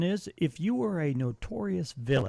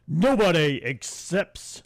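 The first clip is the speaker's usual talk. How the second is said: slow, louder villain proclamation; mock evil villain; 6 dB louder, slower than usual. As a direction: ham up a pompous villain. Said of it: "This is my villain voice for the next one".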